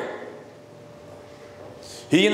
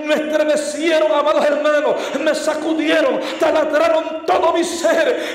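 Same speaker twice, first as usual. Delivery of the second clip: preaching climax; 3 semitones higher than usual. Real, not acted. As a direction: drive it home to the congregation. Preacher recounting being shaken. (predicación con fuerza creciente)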